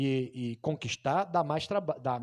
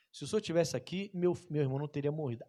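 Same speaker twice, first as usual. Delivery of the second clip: reverent tone; faster than usual. Retold or imitated. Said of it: "só que com um tom diferente".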